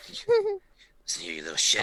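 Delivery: mock scolding. Player scolds beholder pet.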